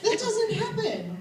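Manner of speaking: laughing through an insistent line, slowed down. Real, not acted. Comedian to audience, laughing while insisting.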